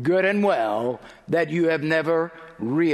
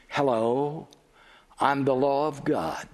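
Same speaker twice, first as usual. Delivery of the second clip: lower, measured, understated voice; gentle introduction; 4 semitones lower than usual. Acted. Law greeting a sinner in the pew, gentle and low. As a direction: introduce yourself gently and solemnly.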